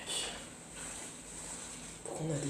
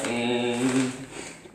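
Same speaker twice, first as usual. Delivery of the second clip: long drawn-out, louder hum; imitated monster noise; 4 dB louder than usual. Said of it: "Il va faire".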